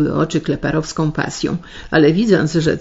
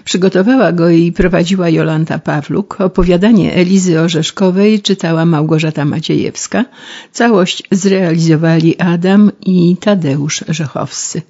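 formal, louder radio host sign-off; radio closing announcement; 6 dB louder than usual. Acted. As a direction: wrap up the programme with New Year wishes.

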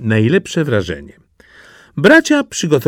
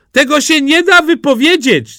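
high, bursting with glee; excited Jaś; 4 dB louder than usual. Acted. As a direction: show off a treasure like a proud child. Jaś teases his find.

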